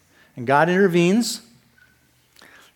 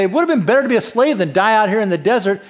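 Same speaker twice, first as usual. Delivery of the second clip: fast, louder whining protest; mock complaining; 4 semitones higher, 4 dB louder, faster than usual. Israelites complaining to Moses at the Red Sea, fast mock whine. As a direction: rattle it off like a panicked, griping crowd. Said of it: "The people start complaining".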